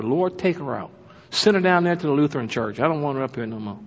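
softly muttered aside to God; secretive mock prayer. Churchgoer asking God to remove a woman, secretive hushed prayer. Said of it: "take him out secretly".

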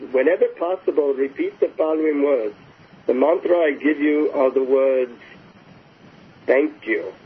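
lightly imitated Indian accent, as if sharing a secret; confiding Indian guru. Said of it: "he leans in to whisper into my ear".

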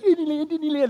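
put-on high, loud chanting of excited little kids. Kids arriving at the park, high excited chant. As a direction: squeal it like toddlers at the gate. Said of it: "They're all excited".

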